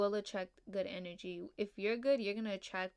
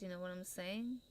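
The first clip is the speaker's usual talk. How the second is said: ordinary talk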